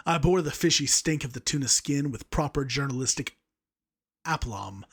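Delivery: reading through a laugh; fighting back giggles; laughing while reading. Real, not acted. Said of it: "trying so hard not to laugh".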